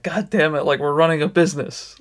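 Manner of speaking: mock-indignant outburst, pitch a touch up; fired-up retold quote. Retelling how a photographer scolded late staff, mildly fired up. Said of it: "like, super fired up".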